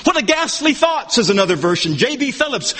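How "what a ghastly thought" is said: "What a ghastly thought" lifted in pitch; high, quoted exclamation on "What a ghastly thought"; emphatic rejection. Shown as a demonstration. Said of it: "it's so emphatic".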